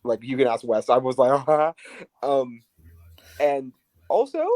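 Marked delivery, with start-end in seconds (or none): 1.5-1.7 re-enacted shocked gasp; imitated gasp. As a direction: gasp as you did watching the match. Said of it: "which I gasped".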